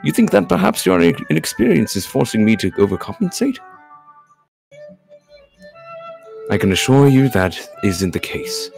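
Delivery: lightly voiced, reassuring formal gentleman; courteous game character. Game character offering coffee to a companion, courteously. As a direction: play a polite host putting a guest at ease. Reads visual novel dialogue.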